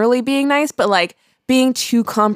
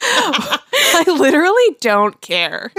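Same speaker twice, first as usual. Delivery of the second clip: slow, much higher, laughing through; giggling dismissal of a bragger; 11 semitones higher, much slower than usual. Real, not acted. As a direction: squeal it out between laughs. Laughing after raw dog quote.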